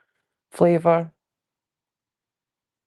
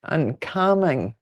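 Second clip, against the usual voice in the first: soothing and calming; much slower than usual. Shown as a demonstration. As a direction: ease the words out gently, like a late-night radio voice. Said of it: "the voice that will put people to sleep".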